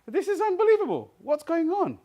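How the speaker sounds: high, loud, astonished; a colleague's retold amazement, high and loud. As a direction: imitate his disbelief, pitch way up. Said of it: "and he went".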